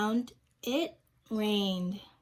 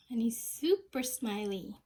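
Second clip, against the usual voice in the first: a whisper; 5 dB quieter than usual. Acted. Teacher whispers to children about the smiley rainbow. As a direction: whisper it, unvoiced and soft.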